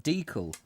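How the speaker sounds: DEE-cal, long first vowel; decal with long E. Shown as a demonstration. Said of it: "That's why I read it that way".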